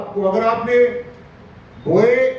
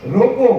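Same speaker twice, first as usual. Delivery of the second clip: रोको set apart, followed by a break; comma after रोको; 3 semitones higher, 3 dB louder than usual. Shown as a demonstration. Preacher explaining the comma's place, pause after रोको. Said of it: "उसके बाद में कोमा लगा दिया".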